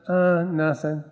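drawn-out uh, then a sheepish dodge; choking on the answer. Retold or imitated. Young Christian asked what he's been doing, sheepish evasion. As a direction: imitate backing out of an honest answer. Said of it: "I choked a couple times".

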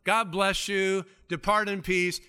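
lightly high, sing-song send-off; hammed-up pious blessing. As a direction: bless them sweetly while walking past. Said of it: "You just go".

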